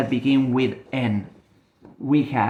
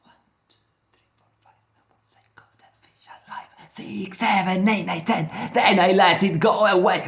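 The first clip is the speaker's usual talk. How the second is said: excited counting, whisper to loud; 4 semitones higher, faster than usual. Acted. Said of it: "but she was so excited".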